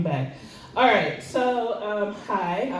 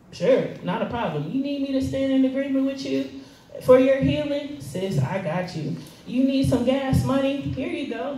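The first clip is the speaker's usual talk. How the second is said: higher, bright eager-to-help voice; upbeat helpful friend; 5 semitones higher than usual. Retold or imitated. Offering help to friends in need, eager and higher. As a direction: play the cheerful friend who helps everyone. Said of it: "easy for me to pray for other people".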